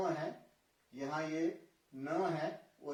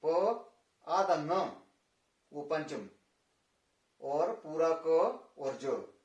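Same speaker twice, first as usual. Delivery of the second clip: slow spelling out; 4 dB louder, slower than usual. Shown as a demonstration. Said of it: "यहाँ पर भी पंकज है".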